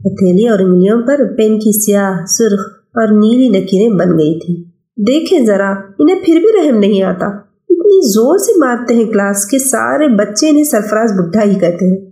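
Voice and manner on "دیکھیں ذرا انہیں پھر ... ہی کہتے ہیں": put-on young boy. Child Afaq voiced.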